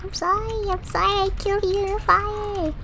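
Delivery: high, pleading whine; mock-wailed apology. Player to character they burned, high mock-pleading wail.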